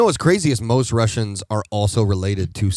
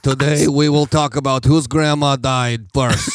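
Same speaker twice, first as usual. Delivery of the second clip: mock Russian host. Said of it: "old communist stories".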